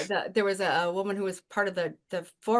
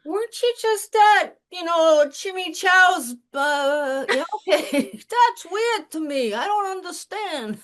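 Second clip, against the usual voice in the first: higher, louder, slow and incredulous; drawn-out disbelief, pitched way up; baffled reply; 7 semitones higher, 4 dB louder, slower than usual. Retold or imitated. She answers the posh lady in high, slow disbelief.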